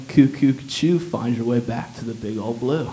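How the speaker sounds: a light, dreamy sea turtle surfer voice; Crush the turtle. Retold or imitated. The doctor seems ready to quote Finding Nemo, mild surfer turtle. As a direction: drift it out like a stoned turtle. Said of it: "away from saying".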